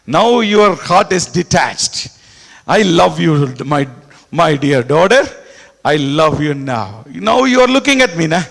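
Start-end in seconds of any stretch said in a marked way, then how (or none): 2.7-7.0 God soothing a dear daughter, gently; tender loving voice. Acted. Voicing God's tender words to daughter.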